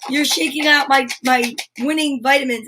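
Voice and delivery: lightly imitating someone all upset; a playful little protest, lifted at the start; mock upset. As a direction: act out a mild, mock complaint. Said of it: "Frank gets all upset".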